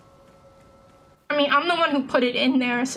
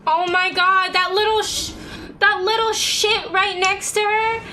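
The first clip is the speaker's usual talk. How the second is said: exasperated; 6 semitones higher than usual. Real, not acted. Outraged recap after dying.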